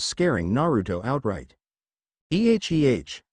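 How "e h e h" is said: nervous laugh. Acted. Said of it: "Naruto laughed, slightly nervous".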